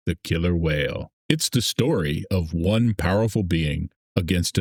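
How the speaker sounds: dramatic trailer announcer read; movie intro voice. Pretend. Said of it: "let's deliver it like it's an intro".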